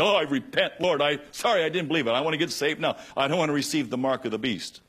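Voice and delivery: high, loud desperate plea to the Lord; pleading sinner. Pretend. Acted sinner pleading at rapture.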